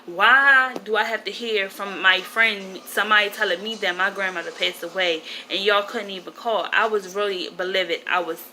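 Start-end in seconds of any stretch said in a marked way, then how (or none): 0.1-6.7 fussing. Retold or imitated. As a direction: fuss at the aunt, as if reliving it. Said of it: "I'm just fussing at my aunt".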